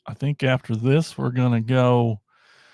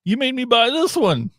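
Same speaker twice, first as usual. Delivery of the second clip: much higher, hammed-up whining complaint; mock whine; 11 semitones higher than usual. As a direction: whine at the toy company like a cheated kid. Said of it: "And we're like".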